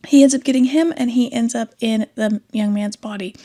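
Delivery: ordinary talk, nothing marked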